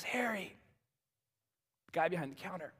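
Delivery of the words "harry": softly spoken. A narrator's reading. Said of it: "slowly and softly says".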